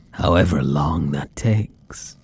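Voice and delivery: low ominous whisper. Acted. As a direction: whisper it darkly. Keeping captive in web.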